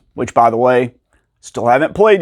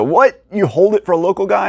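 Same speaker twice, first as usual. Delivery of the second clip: incredulous what; 7 semitones higher than usual. Retold or imitated. Shocked at store's hold policy.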